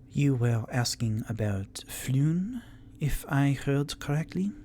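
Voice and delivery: a cool lady exhaling smoke; suave tiefling. Acted. Tiefling NPC voice.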